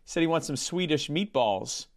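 deadpan anti-joke storyteller, understated; Norm Macdonald impression. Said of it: "cease and desist from the Norm Macdonald estate".

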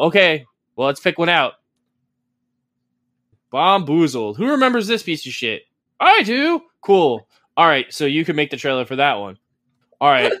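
lightly acted boardroom banter; mock Nintendo staffer. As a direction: play a clueless executive choosing at random. Acts out staff picking games.

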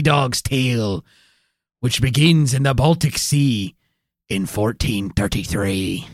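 lightly voiced old sea dog; gruff old fisherman. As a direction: spin the yarn like an old sailor. Salty sea dog storytelling voice.

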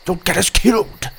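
high, urgent character voice; hushing Tim. A narrator's reading. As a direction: scold them while hushing. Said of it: "Tim hushed".

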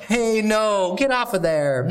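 mock owner scolding a pet; scolding cat owner. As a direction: shoo the cat off the counter.

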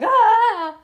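high, loud acted cry of alarm; kids' scream. A narrator's reading. Kids reacting to zombies blundering through, loud high scream.

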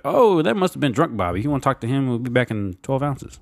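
lightly slurred redneck, slowing at the end; drunk redneck. Retold or imitated. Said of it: "drunk redneck ... and he was like".

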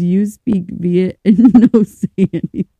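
lightly imitated Vietnamese-accented English; a little Vietnamese twang, breaking into laughter. Reader re-reads the ladies' quote, light Vietnamese accent. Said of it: "added a little twang to it".

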